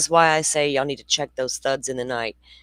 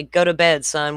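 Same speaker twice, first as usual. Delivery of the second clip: calling out; 5 dB louder than usual. Retold or imitated. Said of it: "hear a thud and say".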